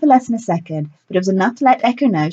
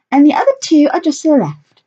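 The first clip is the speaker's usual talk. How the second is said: theatrical director voice; 8 semitones higher, 5 dB louder than usual. A narrator's reading. Lilith character voice.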